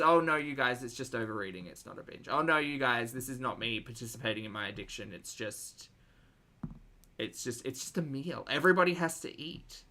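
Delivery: sarcastic mimicry of a streamer's excuses; whiny dismissive voice, poking fun; mocking impression.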